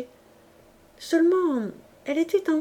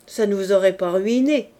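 cool, scornful jab, said a little louder; disdainful irony; 5 dB louder than usual. Acted. Woman mocking her lover for being stingy, disdainful. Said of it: "d'un air d'ironie dédaigneuse".

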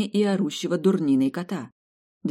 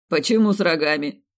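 surprised; 6 dB louder than usual. Acted. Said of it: "удивился Васька".

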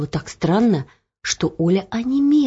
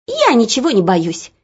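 defiant; 4 semitones higher than usual. Acted. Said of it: "решительно махнула косичками Оля".

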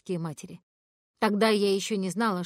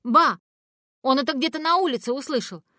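higher, louder excuse; defensive; 6 semitones higher, 7 dB louder than usual. Acted. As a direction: protest her innocence loudly. (оправдывается громко и выше)

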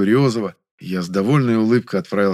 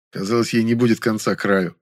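usual speaking voice

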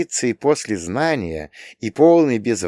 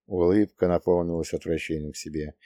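plain reading voice

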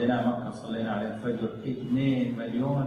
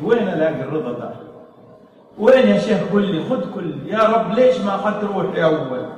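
retold tearful plea, louder; imitating a weeping father; 6 semitones higher, 6 dB louder than usual. Bereaved father pleading with the sheikh, mock weeping. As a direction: echo the father's desperate crying question. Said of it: "يقول لي يا شيخ ويبكي".

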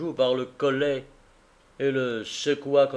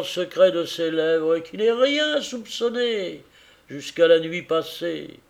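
earnest husband pouring out his regret; a man blaming himself for his blindness; grieving carrier; 5 dB louder than usual. Acted. Carrier tells Tackleton of his wife's sorrow, earnest and grieving.

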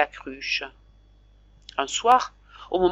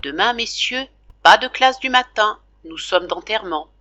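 solemn announcement; 4 semitones higher, 5 dB louder than usual. Acted. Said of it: "d'un air solennel".

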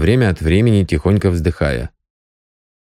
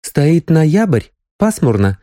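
angry; 8 semitones higher, slower than usual. A narrator's reading. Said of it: "сердито сказала Соня".

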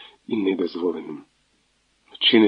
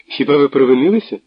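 higher, louder teasing laugh in the voice; 4 semitones higher, 4 dB louder, faster than usual. Acted. Natalia laughs at Tverdokhlib's apology down the phone. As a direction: tease him with a laugh. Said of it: "засміялася вона".

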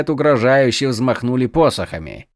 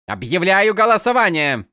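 hurried; 7 semitones higher than usual. A narrator's reading. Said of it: "торопливо проговорила".

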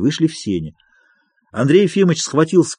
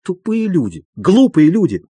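bitter repetition, less than a shout; muttered anger; 5 semitones higher than usual. A narrator's reading. Doctor alone on the sofa, still fuming. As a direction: keep fuming to yourself. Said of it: "долго ещё повторял".

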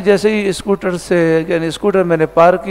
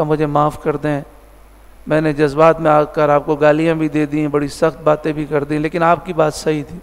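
retold tearful apology; 3 semitones lower than usual. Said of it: "رو رہے تھے".

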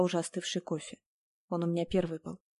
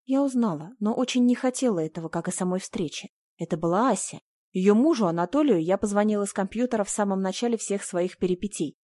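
ordinary delivery

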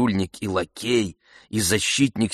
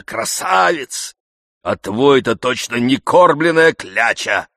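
boastful indignant servant; 5 semitones higher, 6 dB louder than usual. Acted. Zakhar boasting of his master to the coachman, loud and scornful. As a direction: praise the master, sneer at the coachman.

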